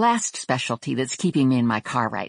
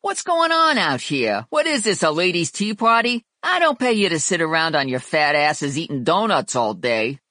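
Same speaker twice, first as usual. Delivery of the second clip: high, barking angry boss; barking tyrant boss; 3 semitones higher than usual. Acted. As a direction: yell at the staff like a weasel. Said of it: "Vinny stormed out".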